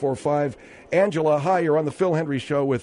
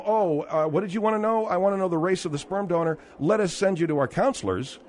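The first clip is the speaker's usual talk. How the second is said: higher, mocking receptionist; mocking clinic voice; 5 semitones higher than usual. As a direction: mimic a condescending clinic worker. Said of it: "when you say to them".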